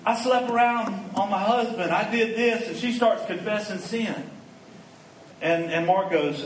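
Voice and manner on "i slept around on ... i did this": high-pitched mock wail of guilt; hammed-up, high confession outburst; imitated tearful confession. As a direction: act out a weeping woman confessing, pitched well up. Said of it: "and she's crying".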